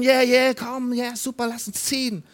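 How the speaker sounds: a loud burst of yeah that falls back quickly; retold joyful shout, only the first yeah really loud; cheering crowd. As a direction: cheer like the eager Israelites. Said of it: "haben geschrien".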